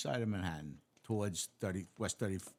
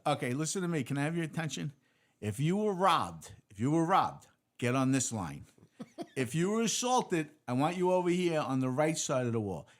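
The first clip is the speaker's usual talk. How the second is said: loud, high call to a crowded room; a sergeant sorting the injured cops into lines, calling out loud; sergeant barking orders; 8 semitones higher, 6 dB louder than usual. Retold or imitated. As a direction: project it to the back of the room like a sergeant.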